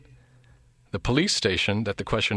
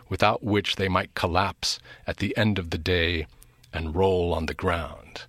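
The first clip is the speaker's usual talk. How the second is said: raised reading voice easing down; dramatic reading. Acted. Quotes novel passage.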